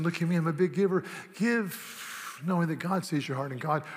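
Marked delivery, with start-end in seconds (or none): 0.0-1.0 show-off giver. Acted.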